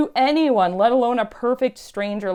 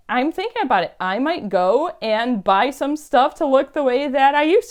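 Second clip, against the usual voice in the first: retold excitement, settling a little but still raised; lit-up realisation; 4 semitones higher, 4 dB louder than usual. Lady deciding to buy goth clothes, imitated eagerness. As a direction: keep the imitated eagerness going, pitched up. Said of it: "she just lit up and was like".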